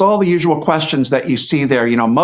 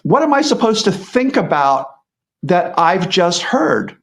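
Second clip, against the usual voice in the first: mock-puzzled inner voice, a little higher; half-acted confusion, searching for the point; baffled; 3 semitones higher than usual. Listener puzzling over Harry's speech, mildly bewildered.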